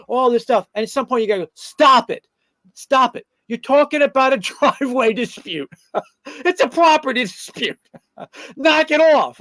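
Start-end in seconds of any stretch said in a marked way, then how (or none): 1.5-9.4 raised, higher voice, half laughing; exasperated stop it. Retold or imitated. Attorney cutting off a client's driveway dispute, raised and laughing. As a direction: shut down the overblown complaint.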